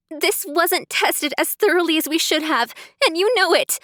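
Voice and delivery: rising to an angry, tearful shout. Acted. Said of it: "I shouted".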